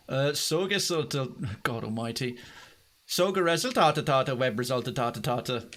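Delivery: mock Norwegian reading of a Swedish phrase; hammed-up Scandinavian accent; reading on-screen words in a put-on Norwegian accent. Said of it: "my flawless Norwegian accent there".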